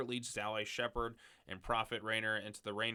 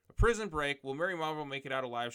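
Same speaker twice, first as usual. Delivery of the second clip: dramatic announcer; 3 semitones higher, 5 dB louder than usual. Acted. Dramatic blurb reading.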